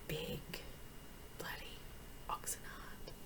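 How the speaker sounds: very soft, savouring each word; hushed relish. Acted. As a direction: murmur it with morbid delight. Relishing memory of dissections.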